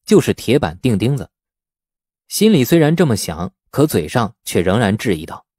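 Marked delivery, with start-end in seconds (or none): none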